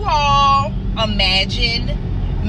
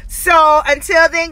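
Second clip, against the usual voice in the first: brackets on front teeth; speaking through braces; talking with new braces; 5 semitones higher than usual. Real, not acted. Seen 4: Metal brackets on teeth visible throughout; reference frames show none.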